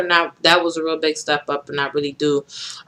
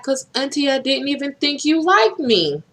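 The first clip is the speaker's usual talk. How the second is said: tearful; 9 semitones higher than usual. Retold or imitated. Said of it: "I was like".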